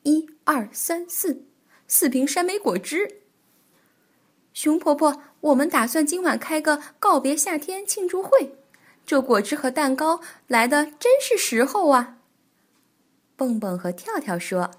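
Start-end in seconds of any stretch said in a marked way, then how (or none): 4.5-12.2 higher, brighter little bunny voices; chirpy young rabbits, eager and happy; cheerful bunny voices. Acted. Bunnies voiced by narrator.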